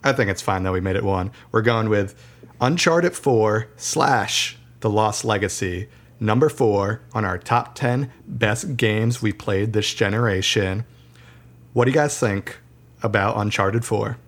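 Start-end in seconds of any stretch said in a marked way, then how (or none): 1.5-10.8 radio announcer voice. Acted. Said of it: "I like your radio voice, Zach".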